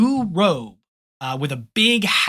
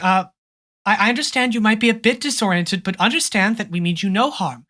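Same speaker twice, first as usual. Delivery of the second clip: gentle princess; 3 semitones higher, faster than usual. Acted. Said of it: "She's like".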